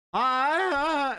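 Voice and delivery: high mock Irish-gone-wrong noise; mangled Appalachian-Scottish accent. Host showing the muddled accent actors end up with. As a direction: drawl vowels between Appalachia and Scotland. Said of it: "somebody from the Appalachians".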